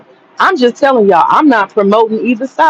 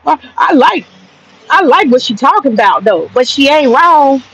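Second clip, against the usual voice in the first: mocking the men; 5 semitones higher than usual. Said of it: "All they can say".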